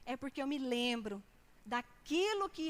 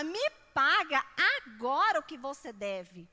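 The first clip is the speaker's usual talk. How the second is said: angry demand; 7 dB louder than usual. Acted. Servant seizing debtor by collar.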